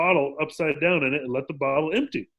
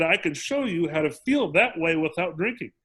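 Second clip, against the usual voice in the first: calm retelling. Retold or imitated. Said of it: "And he said".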